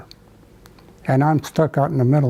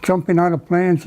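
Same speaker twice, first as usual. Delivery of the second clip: higher, lightly voiced scolding mother; retold scolding; 5 semitones higher than usual. Mother's vision scolding her drowning son, higher mock scolding. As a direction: chide him like a mother who won't let him quit. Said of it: "she scolded me".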